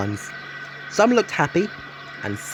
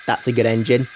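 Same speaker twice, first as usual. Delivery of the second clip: kind; 3 semitones lower than usual. Acted. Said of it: "said the Fat Controller kindly".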